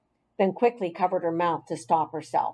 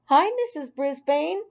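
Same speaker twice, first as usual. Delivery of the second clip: loud greeting; 7 semitones higher than usual. A narrator's reading. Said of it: "a loud voice yelled".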